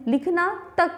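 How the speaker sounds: तक पर ज़ोर, फिर हल्का ठहराव; "लिखना तक" कहकर तक को दबाएँ और रुकें; stress and pause on तक. Shown as a demonstration. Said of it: "तक पे हमने थोड़ा सा जोर दिया, थोड़ा सा पॉज लिया". (तक पर बल देकर रुकें)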